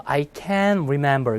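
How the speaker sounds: "can't" held long and strong, final t unreleased; stress on CAN'T. Shown as a demonstration. Teacher modelling for students to repeat, "can't" stressed and long. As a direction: lean hard on "can't", swallowing the t. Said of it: "이거 세게 읽어야 돼요".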